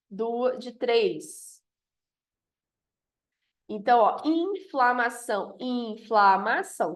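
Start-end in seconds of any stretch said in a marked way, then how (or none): 4.3-5.6 "inflamação" slowly, IN held long; drawn-out first syllable. Shown as a demonstration. Teacher giving a polysyllable, inflamação slowly with long IN. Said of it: "Polissílaba". 5.6-7.0 "inflamação" slowly in separate beats; syllable by syllable. Shown as a demonstration. Teacher counting four syllables, inflamação split into beats.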